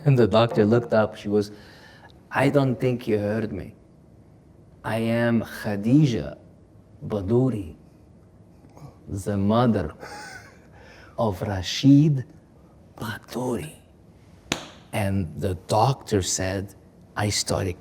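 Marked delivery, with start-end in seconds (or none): 2.3-13.7 slow, proud self-introduction; a hint of a proud, commanding mother. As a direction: announce yourself like a lioness, slowly. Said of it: "The way she said it, it was like she was ordering me".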